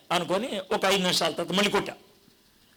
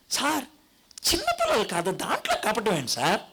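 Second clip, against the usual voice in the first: mock protest. Imagined audience objection.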